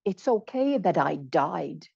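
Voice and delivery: slow, "died" stressed as done and final. Shown as a demonstration. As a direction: lean on "died", not "die". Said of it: "And I wasn't saying".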